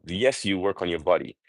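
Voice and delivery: usual speaking voice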